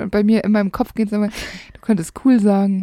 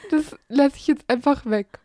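ordinary talk, nothing marked

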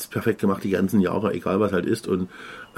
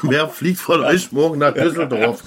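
slow, raised call to a crowd; a singer; 5 semitones higher, slower than usual. Retold or imitated. Singer asking the audience who flies tomorrow, mock stage call. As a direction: put the question to the whole audience. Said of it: "das war ein Sänger".

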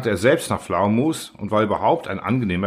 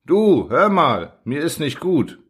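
calling out; 5 semitones higher, slower than usual. Acted. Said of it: "erwachte ich von seinen Rufen".

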